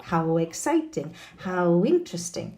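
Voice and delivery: "How exciting, how interesting" with w gliding into each adjective; linked W sound. Shown as a demonstration. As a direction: run How into the vowel through a w. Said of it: "that very nice W sound".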